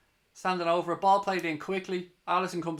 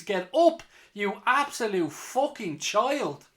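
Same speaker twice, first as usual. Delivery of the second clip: angry shout; 5 semitones higher, 4 dB louder, slower than usual. Real, not acted. Fan yelling at player on ground.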